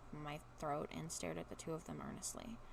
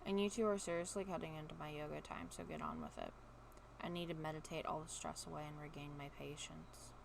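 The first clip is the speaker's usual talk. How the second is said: sarcastic monotone; deadpan monotone, keep it flat; monotone sarcasm; 3 semitones lower, 5 dB quieter than usual. Shown as a demonstration. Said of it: "let's see if I can do monotone".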